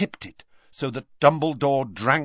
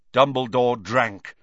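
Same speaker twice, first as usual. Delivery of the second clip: ordinary delivery, nothing marked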